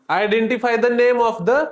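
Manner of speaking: slow reading aloud. Shown as a demonstration. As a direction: read the English question very slowly. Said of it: "वाराचे नाव ओळखा".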